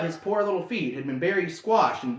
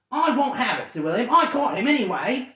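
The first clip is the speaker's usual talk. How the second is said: higher, louder defiant troll; stubborn troll; 7 semitones higher, 4 dB louder than usual. Acted. Troll William arguing with Bert, defiant. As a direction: dig in and refuse.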